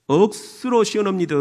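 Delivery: Gyeongsang accent, first word stretched; emphatic Gyeongsang lilt; Gyeongsang dialect. Shown as a demonstration. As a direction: draw it out like a Gyeongsang local. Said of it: "경상도는".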